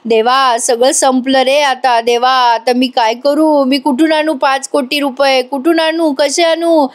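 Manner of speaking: slow, drawn-out mock lament, lightly voiced; mock wailing. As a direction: wail it slowly like a ruined man, without real sobs. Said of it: "मोठ्याने गळा काढत रडतोय". (संथ, हलकेसे नाटकी रडगाणे)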